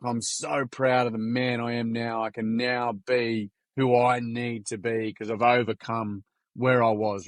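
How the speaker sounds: slow retold heartfelt statement; slow, earnest declaration. Kid telling classmates how far he's come, slow and earnest. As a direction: say it slowly, weighing each phrase.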